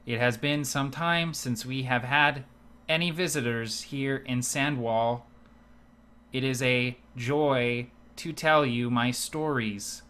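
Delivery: flat droning storyteller, no weight on any word; monotone bard. Acted. Dull bard greeting visitors in a lifeless drone. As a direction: drone the tale so it is hard to listen to. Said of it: "no inflection, no weight to any of his words".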